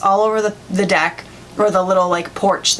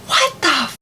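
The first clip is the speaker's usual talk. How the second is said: higher, cut-off shocked reaction; mock outraged disbelief, pitched up; retold freak-out; 5 semitones higher than usual. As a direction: imitate a mom freaking out, without extra volume. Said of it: "my mom freaked out".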